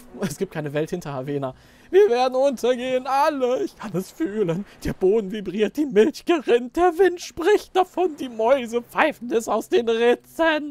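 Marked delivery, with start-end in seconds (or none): 1.9-10.7 high, put-on, doom-prophesying cat voice. In a game role-play, a cat foretells the end of Havena: doom-prophesying cat voice.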